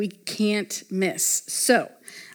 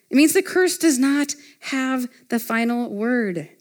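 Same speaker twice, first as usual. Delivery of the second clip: emphatic preaching; 3 semitones higher, 4 dB louder, slower than usual. Real, not acted. Preaches the key point emphatically.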